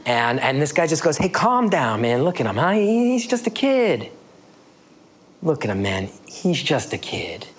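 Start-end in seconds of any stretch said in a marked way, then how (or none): 1.2-7.5 put-on North Jersey Italian-American accent. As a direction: loosely imitate a North Jersey Italian-American guy calming things down. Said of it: "North Jersey, Italian-American male accent".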